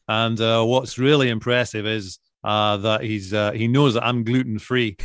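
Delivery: Alan Hansen's Scottish pundit voice as a Bake Off judge. Retold or imitated. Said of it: "And I say".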